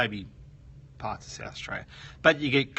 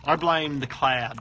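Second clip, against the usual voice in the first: slow, louder, stress on I; mock blame; 5 dB louder, slower than usual. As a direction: push the blame away, slow and loud. Joking blame on the cloud.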